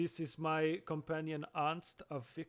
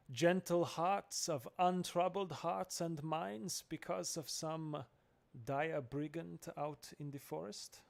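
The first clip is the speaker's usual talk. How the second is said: slow, louder, savoured words; slow florid delivery; 3 semitones higher, 4 dB louder, slower than usual. Acted. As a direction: linger on each flowery word. Gottram hamming florid speech.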